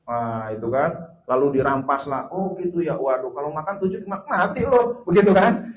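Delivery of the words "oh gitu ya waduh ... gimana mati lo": mock scolding mother. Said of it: "Kata emaknya begitu".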